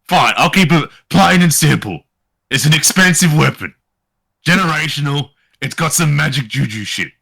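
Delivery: lightly voiced, irritated merchant; grudging shopkeeper. Shopkeeper explaining an expensive weapon to customer, grudging.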